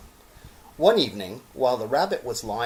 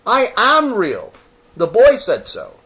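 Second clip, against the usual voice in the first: near tears; 11 semitones higher, 11 dB louder than usual. Acted. Toy rabbit near tears, pleading he is real. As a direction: fight back tears. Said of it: "he nearly began to cry".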